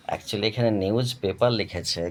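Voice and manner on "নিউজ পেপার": নিউজ পেপার with an unaspirated p, short e; rejected pronunciation. Shown as a demonstration. Teacher showing what not to say, নিউজ পেপার as "niuj pepar". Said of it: "উচ্চারণটা এরকম হয় না".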